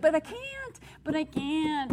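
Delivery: high, whining protest, repeated; whiny Moses. Retold or imitated. Moses whining to God about his calling, high and pleading. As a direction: whimper like a reluctant prophet. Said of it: "Moses was a little bit whiny".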